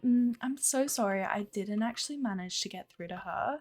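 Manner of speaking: put-on sympathetic receptionist voice; patronizing. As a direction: apologise to a caller without meaning it. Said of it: "it's a very patronizing voice".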